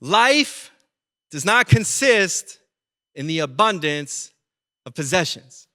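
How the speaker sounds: slow, weighty, each phrase set apart; slow solemn warning. Retold or imitated. Pastor quoting Jesus to the crowd, slow and solemn. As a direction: lay it down slowly like a grave warning. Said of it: "He says".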